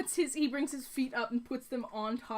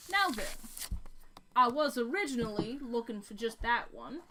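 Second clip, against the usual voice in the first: put-on Texan accent. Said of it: "Did we never do a Texan accent".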